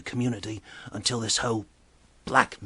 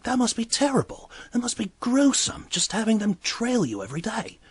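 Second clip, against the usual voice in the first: sympathetic exclamation; 12 semitones higher, 4 dB louder than usual. Retold or imitated. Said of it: "And I'm like".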